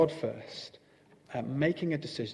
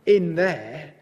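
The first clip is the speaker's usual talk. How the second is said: high-pitched, swooping Toad voice; impatient Toad waving it all away; 6 semitones higher, 5 dB louder than usual. A narrator's reading. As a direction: gush dismissively, pitch riding high. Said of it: "said Toad impatiently".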